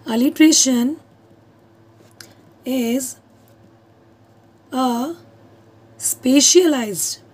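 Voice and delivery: "specialized" drawn out very slowly; slow dictation. Shown as a demonstration. Teacher dictating a definition to students, very slow. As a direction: say "specialized form of" syllable by syllable, slowly. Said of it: "dictating the definition".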